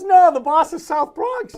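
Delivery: high, slow, loud Steinbrenner impression; imitating Steinbrenner. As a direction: boom it out slowly as the boss. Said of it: "And he goes".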